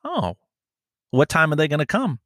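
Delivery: high, wide-eyed fake innocence; stringing the scammer along in a falsely eager voice; mock naive surprise. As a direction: play dumb, all high and eager. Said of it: "And I'm like".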